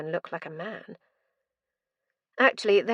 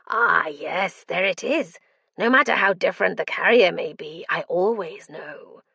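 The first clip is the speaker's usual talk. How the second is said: delighted madman; 4 dB louder than usual. Acted. Mad prisoner delighted.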